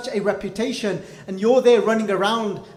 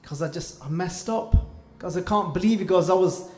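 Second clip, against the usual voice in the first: remorseful confession; 3 semitones lower, 4 dB quieter than usual. Acted.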